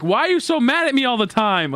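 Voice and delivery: high, mildly imitated puzzled friend; confused friend. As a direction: pitch it up like the baffled friend asking. Quoting confused foreign friend.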